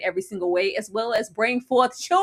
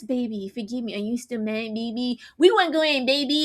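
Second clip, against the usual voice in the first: mock whimpering apology; 2 semitones higher than usual. Man whimpering sorry to his girlfriend, mocked. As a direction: fade into a pathetic plea. Mocking Rick's pleading.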